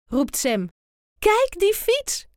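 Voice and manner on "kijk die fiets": veel hoger en traag uitgeroepen; opgewonden roepen. A narrator's reading. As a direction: roep het verrukt uit. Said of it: "roept Tijn". (jongen roept verrukt naar een fiets in de straat)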